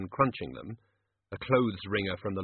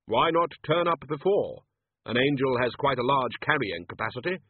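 Death's voice; 3 semitones higher than usual. Acted. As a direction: ask as Death, gravely. Death questioning.

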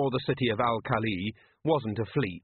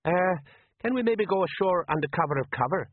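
nervous sergeant; 7 semitones higher than usual. A narrator's reading. Colon nervous plea.

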